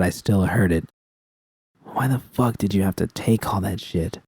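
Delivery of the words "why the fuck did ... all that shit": softer, venting to herself; hushed frustrated vent; barely above a whisper. Acted. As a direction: mutter it quietly under her breath. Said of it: "Her voice was barely above a whisper".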